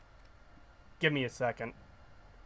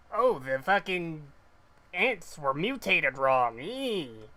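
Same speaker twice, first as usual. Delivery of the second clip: a light mocking nerd voice, slow and a bit louder; 4 dB louder, slower than usual. Streamer mocking the game's scientist, light stereotypical nerd voice. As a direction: lightly ham up a nasal-free stereotypical nerd, drawn out. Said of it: "peak stereotypical nerd voice".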